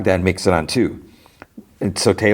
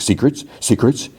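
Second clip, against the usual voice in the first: scornful echo; 6 semitones higher than usual. Retold or imitated.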